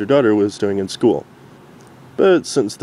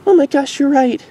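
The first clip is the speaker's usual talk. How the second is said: higher, louder sudden realization; realizing; 5 dB louder than usual. Acted. Derpy realizing Dinky is right. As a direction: it dawns on her. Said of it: "Derpy admitted".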